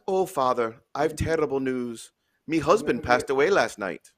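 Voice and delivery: widow with a light Irish brogue; Irish accent. Acted. Miss Murphy tells the priest terrible news, light Irish accent. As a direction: attempt a mild Irish accent. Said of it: "do my best Irish accent".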